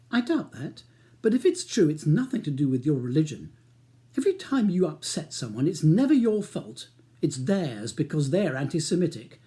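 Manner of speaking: wife retorting, exasperated; sharp retort. Acted. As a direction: needle him.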